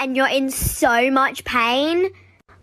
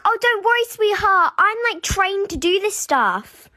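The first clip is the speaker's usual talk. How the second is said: sweet, higher-pitched patronizing nurse; sugary school nurse; 7 semitones higher than usual. Retold or imitated. School nurse brushing off a pupil's broken arm, sickly sweet. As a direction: coo it condescendingly, voice raised. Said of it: "And then they say".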